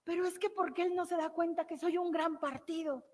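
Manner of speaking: high, plaintive, lightly imitated weeping plea; a jilted young woman crying to her therapist, high and pleading; tearful young woman. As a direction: mimic a heartbroken client's wail, not full sobs. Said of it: "empieza a llorar y me dice".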